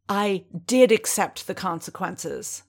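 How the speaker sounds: snarling retort, hard on did; angry snarl stressing did. Acted. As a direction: snap back a snarled denial. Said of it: "Din snarled".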